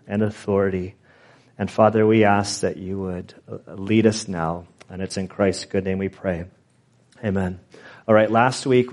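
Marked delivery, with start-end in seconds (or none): 1.6-7.6 low, soft prayerful voice; hushed, reverent close of a prayer; closing prayer. Real, not acted. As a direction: settle quietly into the amen.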